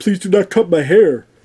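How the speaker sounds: near-tears pleading. Retelling a film scene where the character begs: imitating Thor almost crying. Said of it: "Him almost crying".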